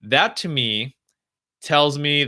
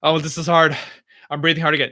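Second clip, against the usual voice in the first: slightly raised, mildly fretful self-talk; mock panic; 3 semitones higher, faster than usual. Streamer acting out struggling with the exercise, mildly panicked. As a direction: act out mild dismay at your breathing. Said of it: "you're panicking when you're thinking about breathing".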